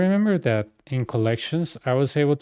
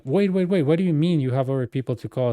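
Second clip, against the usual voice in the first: mock alarmed customer; 2 semitones higher than usual. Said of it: "And if they will be like".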